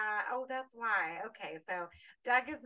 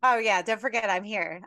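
loud; 9 dB louder than usual. Real, not acted. Loudly reminding others she's there.

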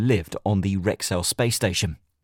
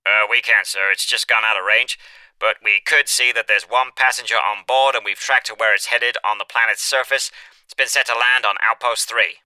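over a crackly radio; radio voice reporting back; crackly military radio; 2 semitones higher, 4 dB louder than usual. A narrator's reading.

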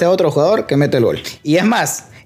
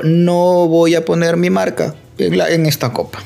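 sponsor voice; 2 semitones higher than usual. Retold or imitated. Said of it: "han decidido".

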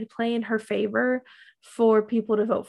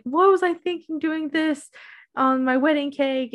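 higher, lightly panicked quote; retold freak-out; 5 semitones higher than usual. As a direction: imitate a friend freaking out at herself. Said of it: "she is freaking out".

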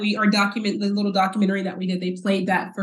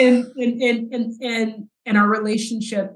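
choked up crying; 4 semitones higher than usual. Real, not acted. Telling the host about her dad's speech, voice breaking. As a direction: voice breaking, higher, through real tears. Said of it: "I'm not gonna cry on this podcast".

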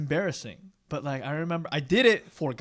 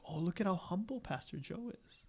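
mock admirer; 4 semitones higher, 11 dB quieter than usual. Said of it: "Hoping people be like".

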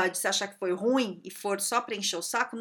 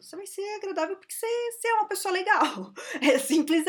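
laughing; 9 semitones higher, 4 dB louder than usual. Real, not acted. Laughing while making her point.

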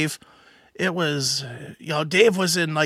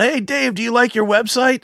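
higher-pitched imitation of a heckler; mild retold yell, pitched up; mock yell; 6 semitones higher than usual. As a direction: call out a heckle without real volume. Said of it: "John yells out".

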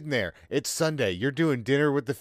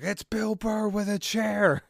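slow, high wrestling-announcer intro; 10 semitones higher, slower than usual. Acted. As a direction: boom it out like a ring announcer.

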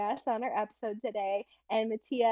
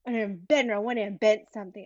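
put-on child's whine. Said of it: "He just blurted out".

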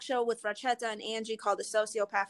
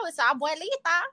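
higher-pitched grandma voice; Abuelita old lady voice; 8 semitones higher than usual. Acted. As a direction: play a sassy old granny giving advice. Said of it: "let me put in my old lady voice now".

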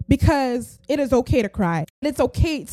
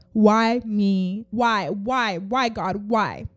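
mock lament; 4 semitones lower, much slower than usual. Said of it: "people who ask yourselves".

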